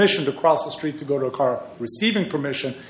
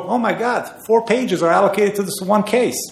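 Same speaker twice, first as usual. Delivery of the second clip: a retold, mock-amazed "Oh my God", pitched much higher; mock astonishment; 6 semitones higher than usual. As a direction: act out the surprise at reading their brief, then a dry "Interesting". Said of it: "I'm reading their reply brief and go".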